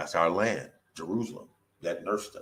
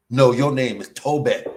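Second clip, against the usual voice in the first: slow, louder insisting no; overseer insisting; 5 dB louder, slower than usual. Retold or imitated. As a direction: hammer it home like the master. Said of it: "the movie Roots".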